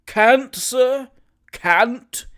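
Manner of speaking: astonished echo of can't; incredulous exclaim. Acted. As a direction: throw the word back in shock. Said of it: "exclaimed Mister Leo Hunter".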